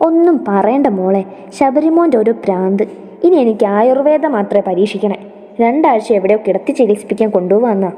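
a touch of complaint, swinging intonation; lightly voiced grumbling mother. Elderly mother complaining about her son's whim, mildly exasperated. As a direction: grumble fondly, quickening at the end.

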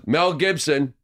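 put-on light Yiddish accent. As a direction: lightly do an old Yiddish lady. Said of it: "she was a Jewish lady".

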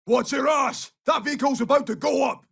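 high-pitched battlefield shout; urgent danger warning. Acted. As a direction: yell a teammate clear of a blast. Warning squad of explosion.

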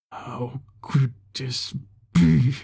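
slow, whispery broken disbelief; stunned disbelief. Acted. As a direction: let it crack out slowly, half a sob. Leader stunned the key vanished.

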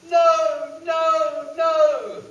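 high loud piggy no; high piercing pig; squealing pig refusal. Acted. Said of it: "says the pig".

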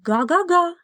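a high, loud glad honk; joyful honk. Acted. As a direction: honk with delight. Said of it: "зрадів Віллі".

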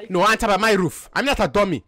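put-on African accent. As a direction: speak in a mock African accent. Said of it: "so you don't have an African accent".

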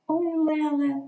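high, drawn-out exclamation; cry of delight. A narrator's reading. Dela opens Jim's gift, crying out in delight. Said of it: "пролунав крик захвату".

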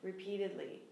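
sighing demo; sighed words. Shown as a demonstration. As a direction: breathe the words out on a sigh.

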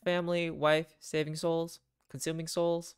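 lightly voiced weary family man; a hint of a burdened dad; wistful captain dad. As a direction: start slowly, then list off the duties. Voices Joseph in the game.

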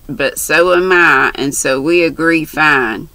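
lightly voiced brash country girl; chatty, bold young girl. Mary's dialogue voiced.

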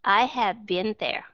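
"been" short as "bin", said slowly; model sentence. Shown as a demonstration. Teacher repeating the example for the class. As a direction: say "I have been there" slowly and clearly. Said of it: "những cái trường hợp đặc biệt".

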